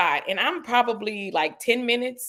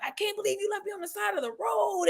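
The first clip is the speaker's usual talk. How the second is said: mock whiny boyfriend; 11 semitones higher, 6 dB quieter than usual. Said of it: "he's like".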